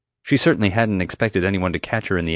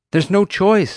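high, loud exclamation; forceful raised voice; urgent insistence; 12 semitones higher, 6 dB louder, slower than usual. A narrator's reading. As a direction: press a hesitant friend to act. Friend urges jump, hunter approaching.

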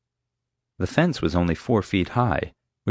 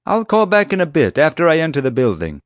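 loud, high sign-off; feigned bad connection; 10 semitones higher, 6 dB louder than usual. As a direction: call over the din, blithely defiant. Loud sign-off over the racket.

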